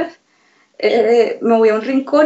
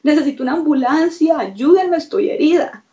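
higher-pitched plea, only half shouted; mild retold yell; 3 semitones higher than usual. Victim retelling her emergency call for an ambulance, mild retold yell. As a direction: re-enact a frantic call for help without full volume. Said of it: "yo creo que yo estaba gritando".

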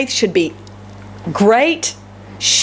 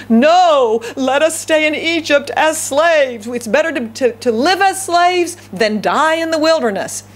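higher-pitched, exaggerated plea; mock protest; 4 semitones higher than usual. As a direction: play a crowd begging to stay put. Imagined Israelites protesting, acted out.

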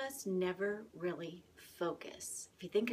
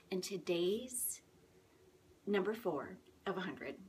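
hushed whisper so nobody wakes; whisper, family asleep nearby; whispering while hiding. Real, not acted. Hiding in the bathroom, family sleeping.

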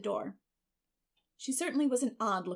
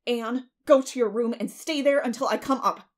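loud, raised-pitch command; stern order; 4 semitones higher, 10 dB louder than usual. A narrator's reading. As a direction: send the child off firmly. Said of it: "recovering her powers of speech with difficulty".

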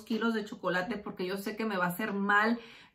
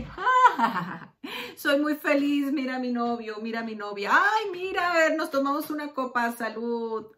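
hammed-up fake cheer with a forced laugh; mock happy; 3 semitones higher than usual. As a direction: play the fake happy couple posing for photos. Fake happiness shown on social media. (felicidad fingida y exagerada con risa forzada)

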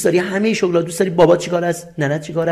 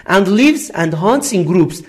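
very slow, careful English read for learners; slow classroom dictation voice; slow example reading; much slower than usual. Shown as a demonstration. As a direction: spell out each word slowly like a teacher. Teacher reads English example sentence.

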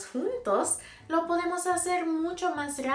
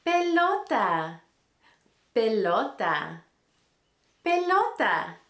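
excited; 5 dB louder than usual. Acted. Repeating word for children.

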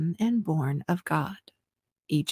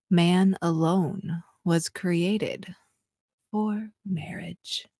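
sexy voice; slower than usual. Pretend. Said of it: "in a sexy voice".

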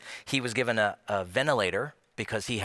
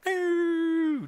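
high "ooh" sliding downward; plummeting sound effect. Shown as a demonstration. Preacher showing church giving going down, high falling whistle-like ooh. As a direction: imitate something dropping away with a high falling hoot.

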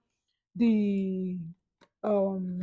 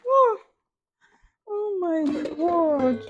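high awed exclaim; 7 semitones higher, 4 dB louder, much slower than usual. Real, not acted. High slow awe.

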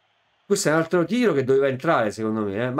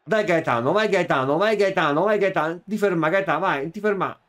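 cheering on; 5 semitones higher, 4 dB louder than usual. Real, not acted. Gamer cheering player on.

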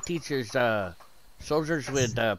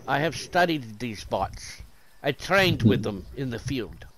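put-on slow, lower Russian-accented voice; 4 semitones lower than usual. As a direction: speak slowly like a Russian ballet teacher. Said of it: "You sound like a Russian ballet teacher".

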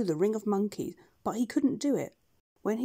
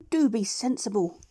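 scolding duck; 2 semitones higher, 4 dB louder than usual. Acted. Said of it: "said Dab Dab".

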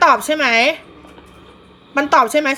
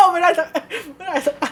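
laughing; 5 semitones higher than usual. Real, not acted. Laughs at failed game.

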